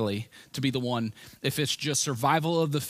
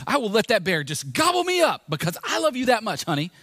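mock grand vow; 2 semitones higher than usual. Mock grand Mother's Day vow.

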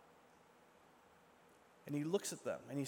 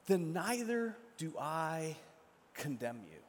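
gentle forgiveness. Acted. Jesus forgives the accused woman.

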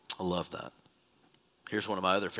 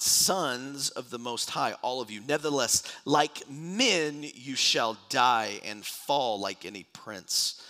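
solemn, emphatic Bible reading; preacher reciting a psalm; scripture reading. Acted. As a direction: read it out as a measured proclamation. Reads scripture aloud.

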